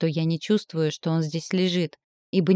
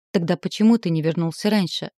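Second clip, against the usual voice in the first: прокричала; 3 dB louder than usual. Acted. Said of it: "прокричала ему в лицо".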